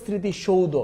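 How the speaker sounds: স্মৃতিসৌধ ending in 'shou-dho'; correct 'shoudho' ending. Shown as a demonstration. Teacher giving students the answer, স্মৃতিসৌধ ending 'shou-dho'. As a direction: sound the OU and final O in স্মৃতিসৌধ. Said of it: "এটা আমার definitely answer হবে".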